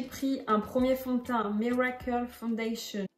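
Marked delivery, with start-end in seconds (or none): 1.5-3.1 "Miracle Foundation" read with a heavy French accent, "Miracle" said like "meracle"; strong French accent on English brand name; botched English accent. Real, not acted. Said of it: "mon accent il est éclaté au sol".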